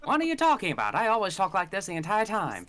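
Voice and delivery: put-on a light old radio announcer. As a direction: protest in a smooth broadcast voice. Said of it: "You sound like a radio announcer".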